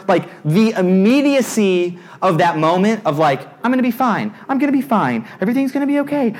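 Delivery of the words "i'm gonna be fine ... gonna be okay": high-pitched, anxious mock reassurance; self-reassurance. Nervous rider telling himself he's fine, high-pitched reassurance. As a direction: convince yourself in a tight run of raised pitch.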